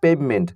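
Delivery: পেভমেন্ট said as English pavement; careful English word pavement; English pronunciation. Shown as a demonstration. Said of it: "এই শব্দটির উচ্চারণ হলো". (ইংরেজি উচ্চারণে পেভমেন্ট)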